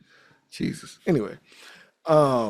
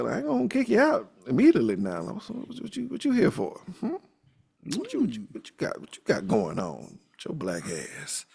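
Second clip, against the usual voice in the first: much higher, sassy woman's voice; mock Mama Kaleba; 8 semitones higher, 4 dB quieter than usual. Mama Kaleba greeting the detective, high and sassy. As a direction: put on a high sassy voice and tease him. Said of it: "She's like".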